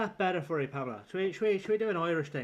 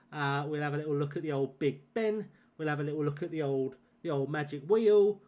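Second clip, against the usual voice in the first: put-on a light South London accent, cheeky and easy. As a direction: chat like a cabbie from south of the river. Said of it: "I could go South London".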